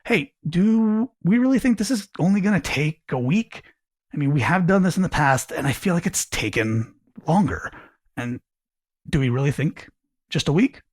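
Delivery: curious, rising, open question; genuinely curious. Shown as a demonstration. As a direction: ask it like you truly want to know. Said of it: "the curious way could be".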